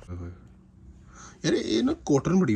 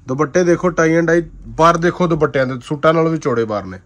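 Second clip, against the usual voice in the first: dramatic loud aunty; 4 semitones higher, 5 dB louder than usual. Real, not acted. Excited seller showing dupattas.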